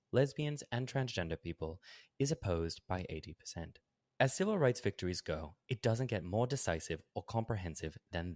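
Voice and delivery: lightly put-on British accent, read as the essay; a faint try at a British accent; Andrew Sullivan voice. Podcast host reads Sullivan's essay in a faint British accent. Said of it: "Do my best Andrew Sullivan voice".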